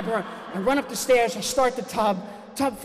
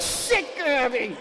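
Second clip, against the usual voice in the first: startled curse; 4 semitones higher, much slower than usual. Retold or imitated. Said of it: "I'm like".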